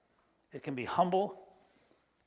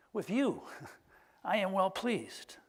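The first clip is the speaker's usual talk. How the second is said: blessing; 2 semitones higher, 3 dB quieter, slower than usual. Pretend. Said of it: "I want to say".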